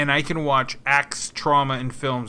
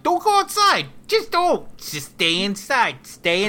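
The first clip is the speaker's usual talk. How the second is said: high, frantic mock yell; exasperated shouting with a Brooklyn twang; 7 semitones higher than usual. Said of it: "you yell. With a Brooklyn accent".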